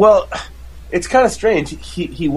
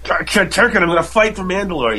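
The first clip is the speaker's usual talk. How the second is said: high, stammering mock outburst; cracking pacifist duchess; 7 semitones higher than usual. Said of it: "she finally has had enough and she cracks".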